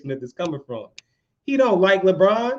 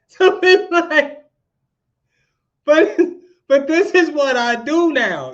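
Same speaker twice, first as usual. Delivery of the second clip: excited outburst; 10 semitones higher, 7 dB louder than usual. Real, not acted. Blogger defends his job, laughing.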